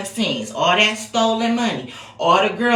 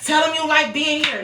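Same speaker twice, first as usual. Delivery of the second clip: higher, insistent captor voice repeating the order; captor's demand; 5 semitones higher than usual. Retold or imitated. Imitating men filming Vicky, pushing her to say it. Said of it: "they had her on video, like".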